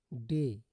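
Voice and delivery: "डे" with AY as a long e; teacher sounding out the long e in "डे"; AY pronunciation. Shown as a demonstration. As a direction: model "डे" firmly after spelling it. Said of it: "ए से करते हैं।".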